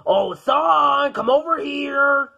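stretched-out summons; calling out. Acted. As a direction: call him over, slow and singsong. Father calls son over.

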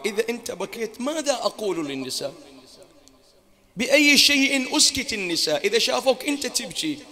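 rising to a loud, high anguished plea; pleading cry. Acted. Zaynab pleads with her weeping brother, loud anguished cry. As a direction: build from plea to a loud lament.

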